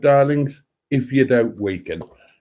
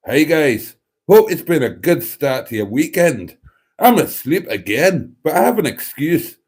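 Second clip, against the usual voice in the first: imitating a viewer. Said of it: "I'll do it in their voice".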